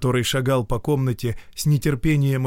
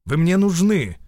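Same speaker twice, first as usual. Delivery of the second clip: stern demand; 7 semitones higher, 5 dB louder than usual. Acted. Муж строго требует жену.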